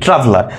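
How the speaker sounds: ট্রাভেলার with the weight on ট্রা; stress on first syllable. Shown as a demonstration. Teacher answering how we say it, ট্রাভেলার stressed on ট্রা. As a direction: lean on the opening ট্রা of ট্রাভেলার. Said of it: "জোর দেই".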